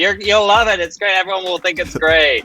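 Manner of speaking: put-on drunk fan. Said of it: "drunk hun coming up to you being like".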